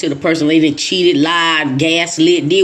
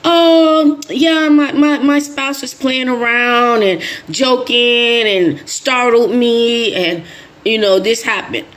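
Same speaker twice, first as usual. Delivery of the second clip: mock excuse; 4 semitones higher, slower than usual.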